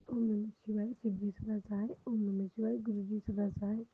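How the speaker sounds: steady, rhythmic mantra recitation. Real, not acted. Closing a prayer to Guruji, rhythmic mantra recitation. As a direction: recite the mantra evenly, line after line.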